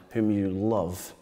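slow, weighted "whom you love"; emphatic phrase. Acted. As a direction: stretch out "love" with quiet emphasis. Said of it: "notice the emphasis there".

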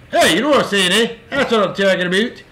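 playful Canadian "eh" and "aboot"; hammed-up Canadian catchphrase; mock Canadian accent. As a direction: put on a joking Canadian accent. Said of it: "Canada indeed".

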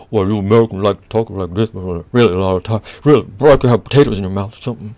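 low, garbled mock American accent; exaggerated American accent. Friend from Manchester mocking Americans, low potato-mouthed American accent. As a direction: mimic a Brit's mush-mouthed American accent. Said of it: "his imitation of American accent went something like this".

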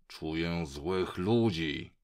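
slow, lightly growled dog voice; lekkie warknięcie psa. A narrator's reading. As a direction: draw the words out in a mild sleepy growl. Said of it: "warknął". (powolne, lekkie warczenie przez sen)

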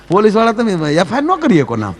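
ordinary talk

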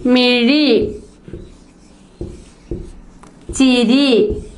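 clear, careful dictation with long gaps. Shown as a demonstration. Teacher dictating words with ഈ for the class, carefully. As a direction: say each word clearly for pupils to write. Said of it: "ഞാനിവിടെ കുറേ വാക്കുകൾ എഴുതാം".

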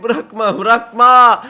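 loud, high urgent order; shouting. Real, not acted. Player tells defender not to let go, urgent shouting. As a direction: yell the command to a defender, building. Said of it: "Öyle bağırınca tuttu bak".

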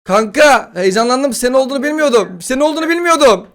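high, rising pleading apology; mock apology. Apologizing to the teammate he shot, hammed-up. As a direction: beg forgiveness, overdone.

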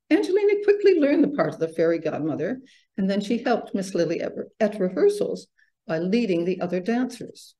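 animated storybook reading with lifted key words; story narration. A narrator's reading. Author reads her ballet story to festival audience, story narration. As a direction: read it to children, measured and expressive.

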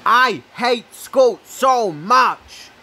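stretched-out angry yell; loud slow rant. Real, not acted. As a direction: drag out each word in frustration. Ranting about school.

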